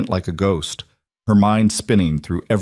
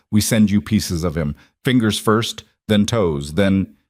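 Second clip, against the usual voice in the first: hardened voice. Acted. Mob boss threatening Vivian on the phone, hardened. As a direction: lay down the terms with a hint of menace. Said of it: "Coretti's voice hardened".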